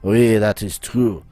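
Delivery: put-on theatrical French-accented schemer. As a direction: announce the plan in a hammy French accent. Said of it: "my accent".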